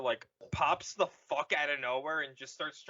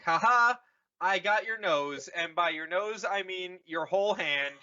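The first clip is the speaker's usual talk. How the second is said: loud taunting; 5 dB louder than usual. Acted. Vader taunting Luke.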